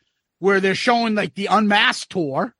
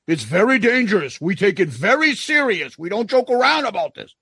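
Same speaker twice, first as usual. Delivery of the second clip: after-school special. Retold or imitated. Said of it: "as though it's, like, an after-school special".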